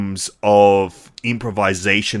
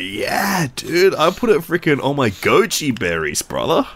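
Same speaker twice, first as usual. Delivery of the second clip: stoner; 4 semitones higher than usual. Pretend. Joking stoner bit.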